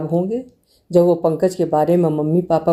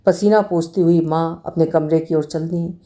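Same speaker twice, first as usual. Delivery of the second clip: ordinary delivery, nothing marked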